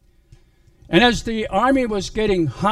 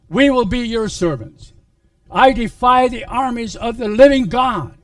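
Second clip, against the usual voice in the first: loud, higher giant's taunt; Goliath's challenge; 5 semitones higher, 5 dB louder than usual. Acted. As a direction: boom out the challenge to the army.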